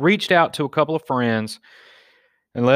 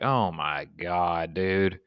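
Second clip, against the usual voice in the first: slow, lower, softer disbelief; exasperated groan; 4 semitones lower, 5 dB quieter, much slower than usual. Retold or imitated. Friends groaning at the guy's dare, slow and fed up. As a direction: drag it out like you can't believe him. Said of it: "And everybody's like".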